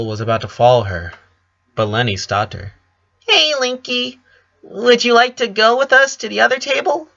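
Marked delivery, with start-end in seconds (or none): 3.3-7.1 much higher, airy and sweet; a spacey sister sweetly asking her brother over; asked with a smile. A narrator's reading. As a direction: invite him dreamily, smiling. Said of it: "she asked with a smile".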